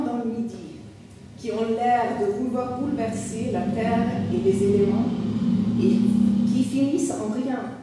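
animated French literary reading; story narration. Acted. Storyteller describing a sudden southern storm, animated narration. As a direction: narrate the rising storm, then settle as it clears. Reads storm episode aloud.

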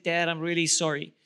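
low, soft retold apology; subdued, contrite admission; sincere apology. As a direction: say sorry quietly, pitch dropped. Retells son's apology to dad.

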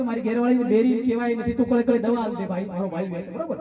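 low, softening appeal to a friend; lightly acted coaxing, voice dropped low; coaxing plea. Husband pleads with his doctor friend, low and coaxing.

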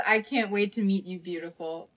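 hushed, falling away at the end; soft letter reading. Acted. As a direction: read a love letter softly to yourself. Reading first love letter aloud.

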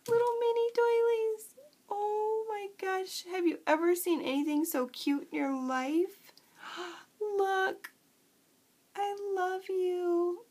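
high, squeaky excited gushing over tiny doilies; annoying squeak voice. Real, not acted. Crafter gushing at mail from a friend, high squeak. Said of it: "I'm doing the annoying squeak voice my son".

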